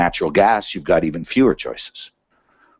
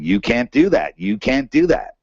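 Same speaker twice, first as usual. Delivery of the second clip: high-pitched gorilla butting in; alarmed gorilla objecting; 7 semitones higher than usual. Acted. Gorilla jumping into the room to stop a deal, high-pitched objection. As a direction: protest in a raised, high voice as the intruding gorilla. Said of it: "a nine hundred pound gorilla jumping in the room going".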